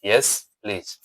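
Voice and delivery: soft polite yes please; gentle answer. Shown as a demonstration. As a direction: answer kindly and softly. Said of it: "नरम भाषा में बोलना चाहते हैं". (नरम, विनम्र जवाब)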